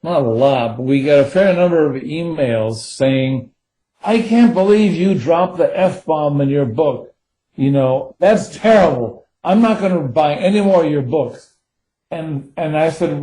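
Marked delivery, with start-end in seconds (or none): 4.0-11.5 higher-pitched imitation of an indignant reader; mock outrage. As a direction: scold the author in mock indignation. Acting out readers' complaint emails.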